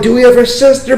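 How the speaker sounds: high, thrilled shout of a question; excited. Retold or imitated. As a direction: blurt it out, over the moon. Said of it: "remember how excited I was".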